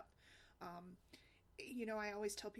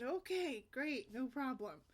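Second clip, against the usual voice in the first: mock excited; 4 semitones higher, 5 dB louder, slower than usual. Playing along with kids.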